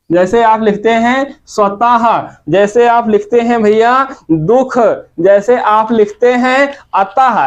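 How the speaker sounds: स्वतः and अतः ending in a breathy ह sound; visarga demo. Shown as a demonstration. Teacher showing students visarga as ह in स्वतः, अतः. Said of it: "हा की तरह होता है".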